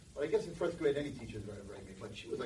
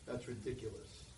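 softer, slow and dry; cold teacher verdict; 3 semitones lower, 8 dB quieter, slower than usual. Retold or imitated. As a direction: flatly dismiss the kid.

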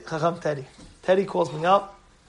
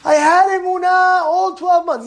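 overjoyed; 10 semitones higher than usual. Retold or imitated. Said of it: "This is what he's telling me".

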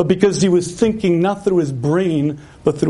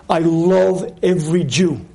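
full heart; 2 semitones lower than usual. Retold or imitated. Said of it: "She says with a full heart".

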